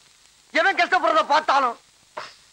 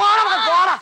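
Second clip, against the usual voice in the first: high, raised-voice brush-off; angry dismissal; 6 semitones higher, 4 dB louder than usual. Acted. Friends quarrel over who goes in, angrily dismissive. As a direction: shoo your rival away.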